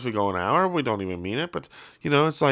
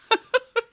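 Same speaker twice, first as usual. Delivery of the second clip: squeaky laugh. Retold or imitated. Imitating John Lennon amused.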